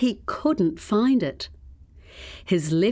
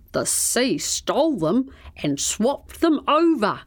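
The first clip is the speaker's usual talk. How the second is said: hushed unvoiced whisper; 3 semitones higher than usual. A narrator's reading. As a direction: whisper it like a secret. Crocodile explains secret mix-up.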